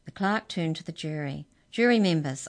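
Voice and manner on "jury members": calling out. Acted. Clerk addresses jury.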